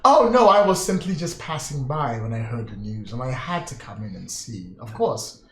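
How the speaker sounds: smug scheming lord. Acted. GM plays Lord Nomura.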